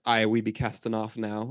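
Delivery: pirate voice. Retold or imitated. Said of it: "He goes".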